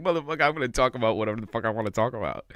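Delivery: rattled off fast and defiant; quick mock-defiant rant. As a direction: fire it off like you don't care who hears. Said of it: "He's like".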